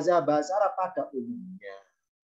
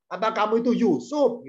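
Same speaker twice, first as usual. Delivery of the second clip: mildly scornful question; lightly acted rude query; coarse, demeaning; 2 semitones higher than usual. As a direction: challenge them with a touch of contempt. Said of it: "Ini kasar bahasa".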